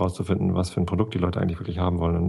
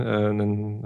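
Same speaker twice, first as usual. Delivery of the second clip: ordinary talk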